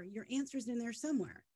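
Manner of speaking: mildly placating, imitated; retold placating reply. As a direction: quote someone gently placating.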